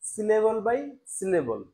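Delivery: very slow, each syllable separated. Shown as a demonstration. Teacher showing French learners how to pronounce, syllable by syllable. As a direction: spell it out one syllable at a time. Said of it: "প্রত্যেকটা উচ্চারণ করতে".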